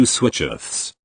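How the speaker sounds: Switcheths said with a lisping th ending; kid's mispronunciation. Retold or imitated. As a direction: say Switcheths like a small child. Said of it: "Yes, he said Switcheths".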